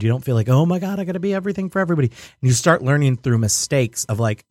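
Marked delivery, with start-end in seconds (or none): 0.5-2.1 2 fast, higher, panicked rush; 3 rattle it off like a swamped new server; 4 mock overwhelmed gabble; 1 frantic panic.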